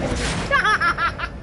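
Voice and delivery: breaking into laughter; laughing. Real, not acted. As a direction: laugh through the words. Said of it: "I'm crying, man".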